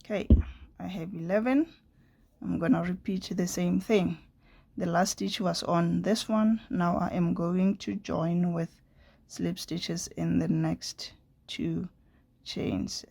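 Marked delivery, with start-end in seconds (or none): 0.8-1.7 hoarse, half-whispered sick voice; raspy whisper. Real, not acted. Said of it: "excuse my voice, I'm not well today". 9.3-13.1 hoarse, half-whispered sick voice; raspy whisper. Real, not acted. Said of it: "excuse my voice, I'm not well today".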